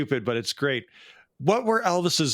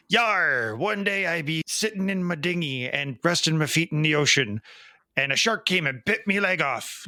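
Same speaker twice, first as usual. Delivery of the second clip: lightly voiced old sea pirate growling his tale; a hint of a salty pirate spinning a yarn; 3 semitones higher than usual. Joke-teller voicing the pirate to the bartender, light pirate voice. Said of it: "a pirate walks into a bar".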